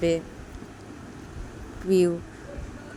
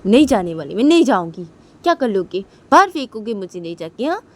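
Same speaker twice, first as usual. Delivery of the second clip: defiant refusal; 3 semitones lower, 4 dB louder than usual. Acted. Woman refuses to leave, defiant.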